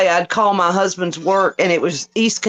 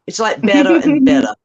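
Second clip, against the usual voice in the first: ordinary talk, nothing marked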